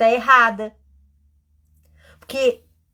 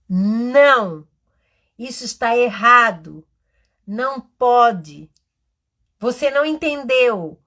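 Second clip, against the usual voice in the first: put-on loud, stern telling-off of a child; harsh scolding teacher; 5 dB louder than usual. Shown as a demonstration. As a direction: snap at the child the way not to. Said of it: "Uma palavra que as mediadoras têm que tirar do seu vocabulário". (repreensão dura e alta de professora)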